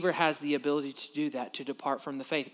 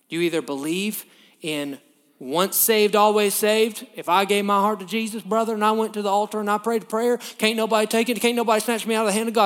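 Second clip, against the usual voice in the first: loud, higher mock revival preacher, hammed-up; 4 semitones higher, 5 dB louder than usual. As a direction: ape a fiery tent preacher, fast at the end. Mocking the once-saved camp.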